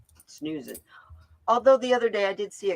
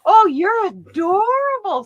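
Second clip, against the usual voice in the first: put-on high, slow baby talk to a kitten; high drawn-out cooing; 13 semitones higher, 8 dB louder, slower than usual. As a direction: coo at a cute kitty. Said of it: "I was like".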